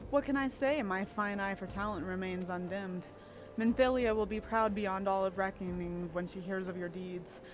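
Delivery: lightly voiced suave rogue, unhurried; Thancred. Streamer reading Thancred's lines to Scarlet, lightly voiced rogue. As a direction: read Thancred's lines as the charming spy. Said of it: "I could do a really good Thancred voice".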